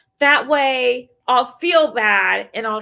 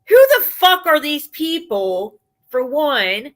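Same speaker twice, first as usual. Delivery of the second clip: exasperated outburst; 4 semitones higher, 5 dB louder than usual. Real, not acted. Ranting at absent woman.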